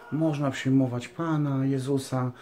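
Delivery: slow, drawn-out, powerless pious delivery; mock mealy-mouthed piety. Mimicking falsely humble preachers on loving Jesus, mushy and slow. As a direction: imitate a limp preacher, dragging each phrase with long pauses. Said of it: "takie rozmemłane, no, rozmemłane, no. Nie ma w tym mocy".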